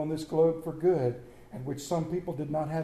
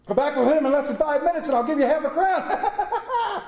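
high, loud, laughing through the words; laughing offer; 7 semitones higher, 4 dB louder than usual. Acted. Scrooge promising half a crown, laughing. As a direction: Scrooge bribing the boy, giggling.

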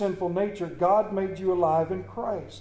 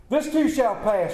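popular misquote; 4 semitones higher than usual. Retold or imitated. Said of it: "They're not in that Bible".

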